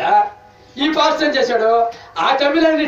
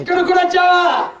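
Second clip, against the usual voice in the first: demon's shout; 6 semitones higher than usual. Retold or imitated. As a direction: act out the possessed woman yelling "ఇక్కడ కూడా వచ్చావా?". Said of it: "అది ఏమంటుంది?".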